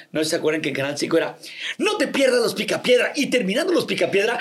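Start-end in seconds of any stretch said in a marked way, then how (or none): 1.8-4.4 voz de anunciante. Retold or imitated. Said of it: "yo hacía la voz que decía".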